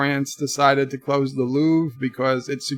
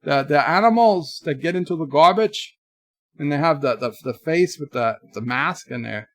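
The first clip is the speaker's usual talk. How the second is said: mock Canadian accent. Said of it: "I can also pretend to be a French noofy".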